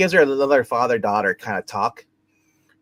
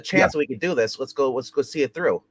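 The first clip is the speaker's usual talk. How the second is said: mock rallying speech, pitched higher; retold determination; 4 semitones higher than usual. Co-host voicing Angela rallying the quitters, mildly determined. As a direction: play her as lightly defiant, voice lifted.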